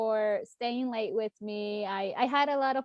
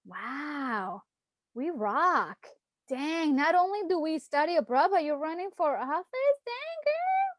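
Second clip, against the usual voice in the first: impressed younger self cheering; 5 semitones higher than usual. Retold or imitated. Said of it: "she would be like".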